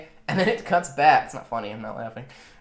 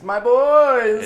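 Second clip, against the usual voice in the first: high, loud, hammed-up call; long, comic high shout; mock joyful hail; 11 semitones higher, 8 dB louder than usual. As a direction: call out to your comrades, overplayed. Soldier hails his comrades.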